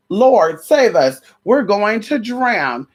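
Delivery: panicked plea from the boat; disciples crying out. Acted. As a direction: shout it like men about to drown.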